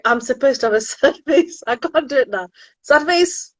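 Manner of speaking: giggling while trying to look sad; fail at a sad face and laugh it off; laughing at herself. Real, not acted. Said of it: "I need to have a sad face".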